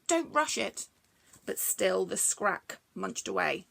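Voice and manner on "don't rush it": mild begging. Acted. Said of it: "begged Bronglae".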